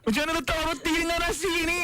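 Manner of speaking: high incredulous question in Malay; shocked Malay local. Retold or imitated. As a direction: ask it aghast, voice way up. Imitating shocked Malay diner.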